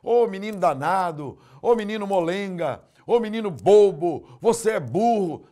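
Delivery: a hint of a cursing parent; mock scolding parent. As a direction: taunt the child with insults. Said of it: "São palavras assim".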